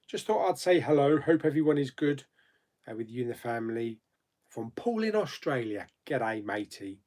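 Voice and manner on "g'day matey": put-on a lightly done Australian accent on a greeting; a hint of Australian, barely put on; bad Australian accent. Greeting a viewer from Australia, poor Australian accent. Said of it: "my poor attempt at Australian accents".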